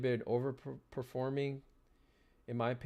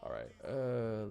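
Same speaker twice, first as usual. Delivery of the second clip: out of breath; slower than usual. Real, not acted. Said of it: "let me catch my breath".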